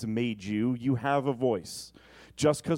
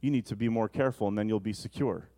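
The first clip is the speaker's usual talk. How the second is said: demonic voice; 4 semitones lower, faster than usual. Retold or imitated. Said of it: "The demonic voice says".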